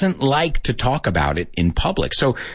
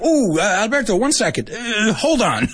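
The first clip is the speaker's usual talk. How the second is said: amused high voice through laughter; laughing; 11 semitones higher than usual. Retold or imitated. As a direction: laugh while correcting him. Audience correcting, laughing.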